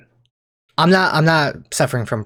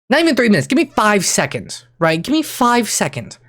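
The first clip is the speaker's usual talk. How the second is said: desperate pleading; 8 semitones higher than usual. Retold or imitated. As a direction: beg for five seconds. Begging own brain for quiet.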